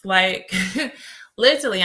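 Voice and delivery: real chuckle breaking in; amused, with a short laugh mid-phrase. Real, not acted. Speaker recalling shopping with her aunt, laughing. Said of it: "I'm laughing because I'm thinking".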